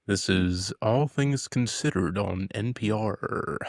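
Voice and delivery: slow, measured show intro parody; lightly put-on public radio announcer; mock radio host.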